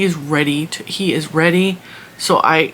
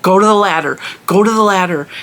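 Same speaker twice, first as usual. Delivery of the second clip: firm repeated order with a slight lift; retold no-nonsense command, punched out evenly; stern command; 3 semitones higher, 4 dB louder than usual. Owner repeating the ladder command to dog, stern. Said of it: "I say it in a stern voice".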